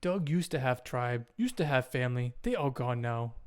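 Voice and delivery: lightly voiced simple caveman, matter-of-fact about loss; a hint of a simple cave dweller; plain caveman telling of his lost tribe; caveman Doug. Game master plays Doug.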